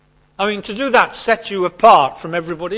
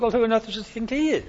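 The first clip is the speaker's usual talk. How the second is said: indignant scoff; 6 semitones higher, 6 dB quieter, faster than usual. Pretend. Listeners' indignant thought.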